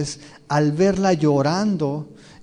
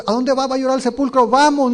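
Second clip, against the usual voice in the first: higher, louder, hurried crowd calling out; rally everyone to follow her; urgent mourners; 7 semitones higher, 6 dB louder, faster than usual. Acted. Mourners urging each other to the tomb, excited and louder. Mourners rush after María.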